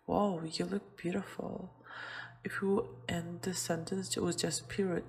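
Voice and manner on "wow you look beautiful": a touch of delight on the compliment; excited exclamation. Shown as a demonstration. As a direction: say it with a little mild excitement. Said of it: "we're expressing an excitement".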